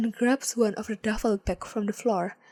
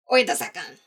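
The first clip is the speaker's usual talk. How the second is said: shout; 3 semitones lower, 4 dB louder than usual. A narrator's reading. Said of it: "The leader from earlier shouts".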